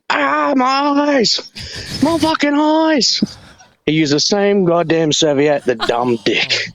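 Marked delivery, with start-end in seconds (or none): 0.1-3.2 high, pained cry of burning eyes; mock pained yell. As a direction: yell it like your eyes are on fire. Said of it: "he starts fucking".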